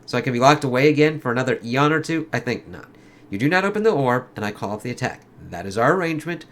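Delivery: lightly acted comic dialogue, in character; comic characters voiced. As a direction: read it like a dramatic comic scene. Reads villain and hero dialogue.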